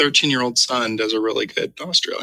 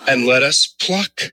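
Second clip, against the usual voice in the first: slow, suggestive scripture reading; mock-lascivious reading; slower than usual. Co-host making scripture sound dirty, mock-lascivious. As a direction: linger suggestively on the last word. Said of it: "read it like it was really dirty".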